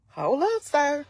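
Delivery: heated retort. Retold or imitated. Heated retelling of her retort.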